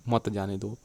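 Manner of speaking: मत जाने दो as one unit after a break; मत joined to जाने दो. Shown as a demonstration. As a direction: run मत straight into जाने दो. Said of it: "फिर थोड़ा सा विराम करिए".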